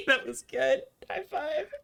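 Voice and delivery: high giggly laughter; giggling. Real, not acted. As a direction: laugh through it, delighted. Giggling after the prank.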